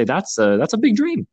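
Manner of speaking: high, mocking doubter voice; hammed-up mock disbelief at a big dream; doubting naysayer. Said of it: "a lot of people would say".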